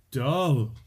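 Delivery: "dull" held long and leaned on; drawn-out emphasis. Real, not acted. Guest damns the band to a fan, "dull" long drawn out. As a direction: stretch "dull" out as far as it goes. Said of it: "you hit it for as long as you could".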